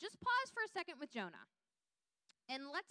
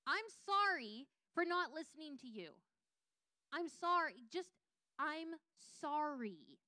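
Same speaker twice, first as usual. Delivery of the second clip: heartfelt apology; 4 semitones higher, 3 dB louder than usual. Shown as a demonstration. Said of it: "have a conversation with God and say".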